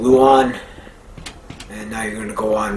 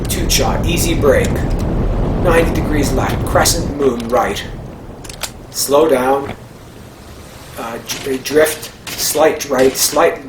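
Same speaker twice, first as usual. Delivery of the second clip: rally co-driver callouts; 4 semitones higher than usual. Pretend. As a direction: bark the turns like a co-driver. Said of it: "doing my rally driving here".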